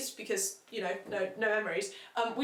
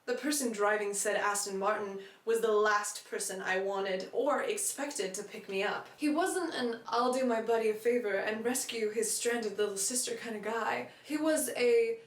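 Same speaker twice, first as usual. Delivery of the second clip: light American accent for a book reading. Shown as a demonstration. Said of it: "I am gonna do an American accent for, uh, for these readings".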